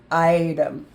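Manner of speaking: item with a flapped d and schwa; "item" said as eye-dum with a quick tapped middle. Shown as a demonstration. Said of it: "Here's the schwa sound".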